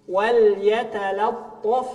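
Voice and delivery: wal yatalattaf drawn out slowly. Shown as a demonstration. Teacher models wal yatalattaf.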